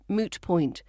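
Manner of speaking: usual speaking voice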